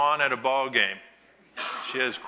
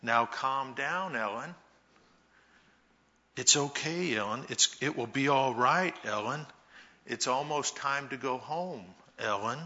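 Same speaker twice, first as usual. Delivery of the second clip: soothing mom; 4 dB quieter than usual. Retold or imitated. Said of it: "her mom kept saying things like".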